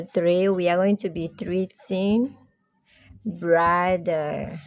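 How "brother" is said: brother with a clear BRAH-duh; model word brother. Shown as a demonstration. Teacher to class, modelling brother carefully. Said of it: "Everybody say brother".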